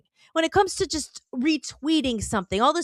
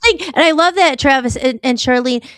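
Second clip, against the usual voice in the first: louder, rallying the guests on; loud enthusiastic rallying cry; fired-up agreement; 8 dB louder than usual. Real, not acted. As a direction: punch it out with passion.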